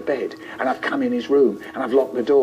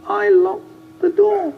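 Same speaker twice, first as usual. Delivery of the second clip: very high, slow, small confession; a tiny frightened child admitting it, very high and slow; weedy little voice; 4 dB louder, slower than usual. Retold or imitated. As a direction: squeak it out, scared of Dad. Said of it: "In a weedy little voice".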